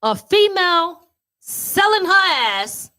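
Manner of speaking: pause, then a knowing "What's worse?"; dramatic punchline question. Shown as a demonstration. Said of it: "Here's what I'm gonna say".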